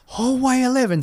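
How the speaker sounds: high barked call down the hall; drill sergeant call. Retold or imitated.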